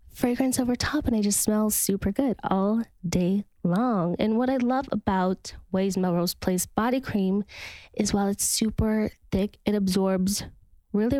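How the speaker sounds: measured, upbeat sponsor read; podcast ad read. Acted. Host recommending body cream to listeners, podcast ad read. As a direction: sell it like a personal recommendation.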